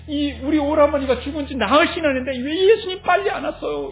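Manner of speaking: 따지듯 높여 흉내 낸 원망. Retold or imitated. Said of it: "원망하는 소리를 들으면서". (원망을 흉내 내는 말투)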